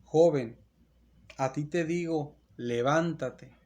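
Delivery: loud, slow command, the last word drawn out; commanding call to the dead. Acted. Jesus at the funeral commanding the dead son to rise, loud and slow. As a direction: call out a dead youth with full authority. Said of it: "esto es lo que va a decir Jesús".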